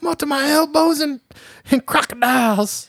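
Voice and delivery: very high, hammed-up Southern accent; mock a bad movie Cajun-Southern accent; Michael Rooker. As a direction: squeal it out in exaggerated Southern. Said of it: "try my best to approximate".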